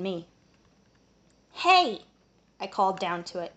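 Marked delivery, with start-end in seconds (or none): 1.5-2.0 high call across cages. Acted. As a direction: shout down to get attention. Calling down to pixie.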